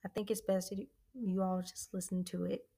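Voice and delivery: stumbling over words, excited; excited stutter, tripping on words. Real, not acted. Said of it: "I'm stuttering because I'm getting excited".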